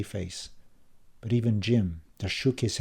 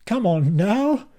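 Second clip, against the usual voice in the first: soothing father; 10 semitones higher, 7 dB louder, slower than usual. A narrator's reading. Dad calming the quarrel.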